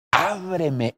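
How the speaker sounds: drawn-out, gentle calling; tender plea. Acted. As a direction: call lovingly to a beloved, without force. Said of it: "es una voz suave, es una voz de amor".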